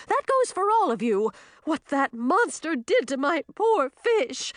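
high, loud furious shriek; enraged shouting. Acted. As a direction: scream it at them in rage.

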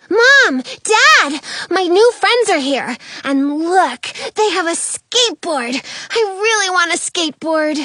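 high, eager little cub voice, rushing at the end; a bubbly bear cub who can't wait to share; excited kid bear. Acted. Kid bear shows her parents the skateboard, gushing.

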